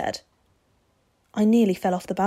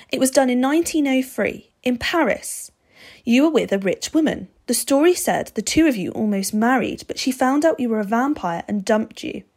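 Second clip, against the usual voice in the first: lightly voiced boy, a little higher; boy Steve, explaining; 5 semitones higher, 4 dB louder than usual. A narrator's reading. Boy recounting the vampire's past to his face, explaining.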